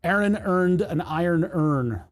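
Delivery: slow, even "Aaron earned an iron urn"; measured reading of "Aaron earned an iron urn"; tongue-twister. Shown as a demonstration. Accent tongue-twister demo.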